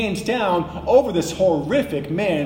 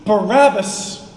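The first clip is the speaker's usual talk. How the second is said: slow, raised, pressing shout; crowd shouting; 3 semitones higher, 3 dB louder, slower than usual. Retold or imitated. Preacher voicing the whole crowd caving to hysteria, slow raised shout. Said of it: "just shouting together".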